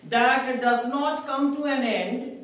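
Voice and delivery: slow dictation for note taking; dictation pace. Shown as a demonstration. Teacher dictating a definition to students, slow. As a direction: say it slowly so they can write it down. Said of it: "you can write it down".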